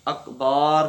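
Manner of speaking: اکبار with a long aa after the b, slowly; stretched ba. Shown as a demonstration. Teacher warning students not to say اکبار. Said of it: "اکبار نہیں کہنا".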